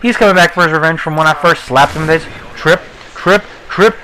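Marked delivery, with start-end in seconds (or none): 2.6-4.0 high, slow stretched triple; excited stutter. Real, not acted. Celebrating the triple kill, high stretched and excited.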